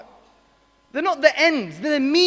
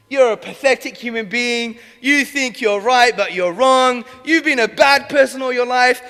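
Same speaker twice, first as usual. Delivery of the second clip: harsh berating; 6 dB louder than usual. Retold or imitated. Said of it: "emotional, intellectual nightmare".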